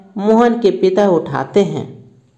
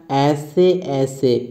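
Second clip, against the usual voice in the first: lower, slow pained murmur; pressing stomach; 4 semitones lower, much slower than usual. Acted. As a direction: squeeze the words out through a sore belly. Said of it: "पेट दबाते हुए बोलता है".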